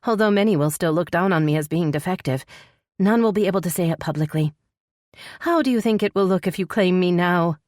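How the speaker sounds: lightly voiced female character; a hint of a troubled heroine; distressed heroine. Heroine continues her explanation.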